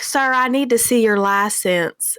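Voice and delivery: slow imitation of an Alabama accent; Southern accent. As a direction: imitate a Southern officer, drawling it. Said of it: "I had to translate for Mike".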